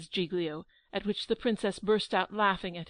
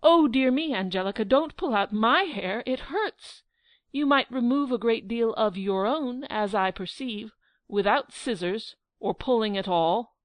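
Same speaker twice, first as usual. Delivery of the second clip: laughing and crying; 2 semitones higher, 6 dB louder than usual. Acted. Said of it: "started laughing and crying".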